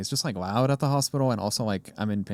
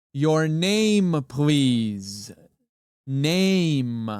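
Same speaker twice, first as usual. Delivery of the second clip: put-on very slow, condescending tone, name drawn out; 4 semitones higher, 4 dB louder than usual. Retelling how a hospital worker asked for a name: imitating a condescending tone. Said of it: "condescending, like, fucking ass tone".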